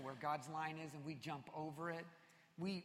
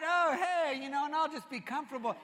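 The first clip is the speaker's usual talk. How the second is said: mock casual dude; 8 semitones higher, 9 dB louder than usual. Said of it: "He's not".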